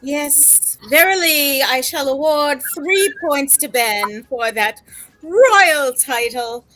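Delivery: grand archaic proclamation, slow; mock biblical prophet. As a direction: speak like an old-world judge. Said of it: "these and thous the entire night".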